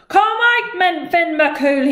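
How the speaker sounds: high, loud shouted challenge; roared. Acted. Scottish giant roars at Finn's house. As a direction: bellow the challenge. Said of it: "he roared".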